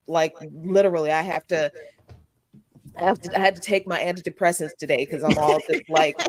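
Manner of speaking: hollow echoey sound; echoing tunnel. Real, not acted. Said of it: "you sound like you in a tunnel now".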